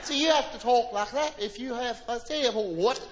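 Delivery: stiff upper-class English impression, lip barely moving; a lightly put-on English accent; mock English accent. Comic mimicking English people, mock English accent. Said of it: "their bottom lip".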